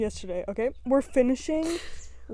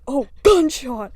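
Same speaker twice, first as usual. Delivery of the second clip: blurted reaction; 5 dB louder, slower than usual. Retold or imitated. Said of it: "and I just went".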